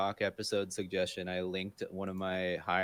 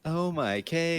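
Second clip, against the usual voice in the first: a replayed gasp of shock, pitched up; imitating shocked reaction; 8 semitones higher, 4 dB louder, much slower than usual. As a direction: echo the stunned clip cry. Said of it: "your raw reaction is just ut-, utter shock".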